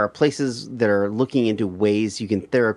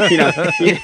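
high breathless laughter through words; cracking up mid-phrase; laughing; 4 dB louder, faster than usual. Real, not acted. Laughing at own bit.

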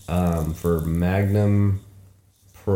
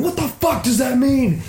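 mock exasperation. Obsessing over cop's phrase.

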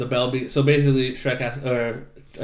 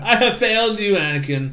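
mock dramatic lament; 8 semitones higher, 5 dB louder than usual. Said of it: "he's like".

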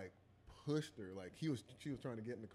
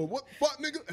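loud high threatening yell; mock angry reply; 13 semitones higher, 9 dB louder than usual. Imitating the attacker turning on the helper. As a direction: snap back at the intruder. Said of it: "He go".

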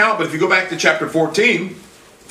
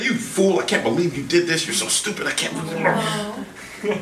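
harsh scolding; 5 dB quieter than usual. Pretend. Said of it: "No, that's not God".

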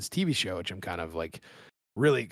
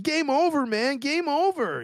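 high, loud panicked wail; panicked Hudson impression; 7 dB louder, slower than usual. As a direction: cry it out like a doomed soldier. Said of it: "When he's like".

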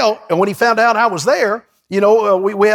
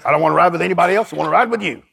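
imitating Sumrall; 3 semitones lower, much faster than usual. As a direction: lower old man's voice, lightly put on. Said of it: "he talked like this".

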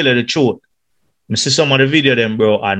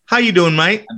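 a light mock English accent, a touch higher; English twang; 4 semitones higher than usual. Guest mimics a tourist's English accent, lightly. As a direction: tease it like a visiting Brit. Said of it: "the person come with the English twang".

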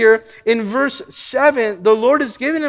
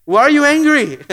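God asking; 5 dB louder than usual. Retold or imitated. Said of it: "God is asking you".

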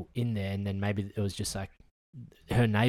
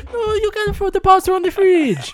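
laughing; 10 dB louder than usual. Real, not acted. Laughing at a TikTok.

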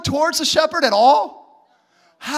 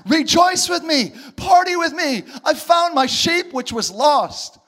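joyful invitation; 3 semitones higher than usual. Retold or imitated. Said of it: "saying to them".

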